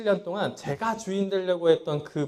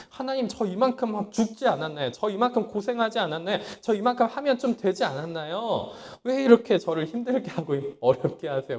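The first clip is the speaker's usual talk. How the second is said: raised, pleading complaint to God, higher and pressing; complaining to God; 5 semitones higher, 4 dB louder than usual. Retold or imitated. Preacher quoting his old prayer to God, aggrieved raised plea. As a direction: demand to know why it's so hard.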